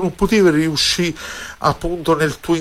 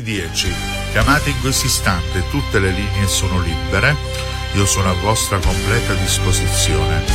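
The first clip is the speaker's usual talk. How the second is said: ad read. Acted. Phone number ad read over music.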